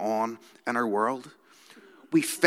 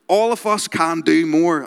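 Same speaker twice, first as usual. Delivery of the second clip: louder and higher, driving each word hard; aggressive motivational speaker; 4 semitones higher, 6 dB louder than usual. Retold or imitated. Reading a Northern Irish entrepreneur's TikTok quote, aggressive and loud. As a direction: push it like a hard-sell hustle coach. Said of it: "I'm gonna read you some of his quotes".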